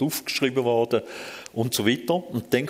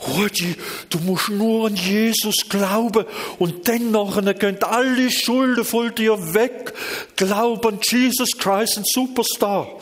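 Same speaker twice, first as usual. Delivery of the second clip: high, slow, hammed-up preacher voice; mock a pushy evangelist, sing-song; 12 semitones higher, 4 dB louder, slower than usual. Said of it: "wenn er rangekommen wäre und sagt".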